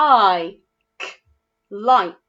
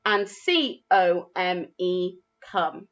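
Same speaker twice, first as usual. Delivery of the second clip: slow spelled-out letters; much slower than usual. Shown as a demonstration. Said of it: "they are spelt".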